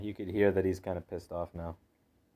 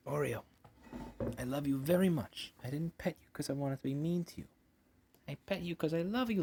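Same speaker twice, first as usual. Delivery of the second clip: sweet, higher-pitched pet talk; tender reassurance; 5 semitones higher than usual. Real, not acted. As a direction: soothe an offended cat lovingly. Reassuring the upset cat.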